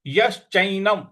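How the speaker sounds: "यश्चैनम" with a firm sh; stress on sha. Shown as a demonstration. Teacher shows the stressed sh in "यश्चैनम". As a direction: lean on the श in "यश्चैनम". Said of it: "जो श है उस पर हमको आघात देना है".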